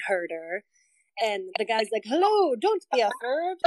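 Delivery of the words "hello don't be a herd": high Scottish lilt that slips into Jamaican; botched Scottish accent. Acted. Swineherd greeting strangers, bad Scottish-Jamaican accent. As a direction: attempt Scottish, land somewhere near Jamaica. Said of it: "Scottish-ish, but it comes out Jamaican".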